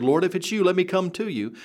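calling out to the Lord. Acted. Peter calling out to Jesus.

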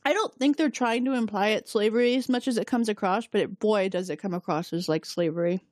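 talking around a piece of ice; ice in mouth. Real, not acted. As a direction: ice in mouth, words a bit thick. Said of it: "Sorry, I have ice in my mouth".

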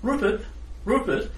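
high sing-song call; calling wizard. Acted. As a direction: call the servant brightly. Wizard summons servant.

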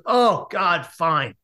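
imitating exasperated giving in; grudging surrender. Woman giving in to the date, acted as exasperated. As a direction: groan the exclamation, then drop to a resigned finish.

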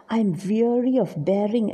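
stressed "weary", stressed "bearing"; emphatic vowels. Shown as a demonstration. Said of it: "it adds so much of emphasis".

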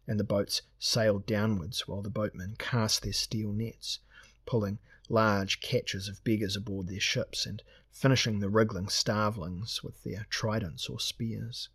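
usual speaking voice

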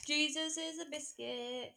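goofy sign-off; silly. Pretend.

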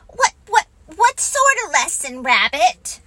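high, stammering little pig voice; a tiny piglet asking excitedly; eager Piglet. Acted. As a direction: push the question out in a rush.

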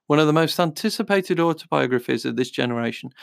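brisk book-blurb read; reading aloud. Real, not acted.

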